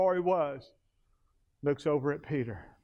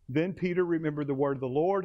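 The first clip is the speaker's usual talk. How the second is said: ordinary talk, nothing marked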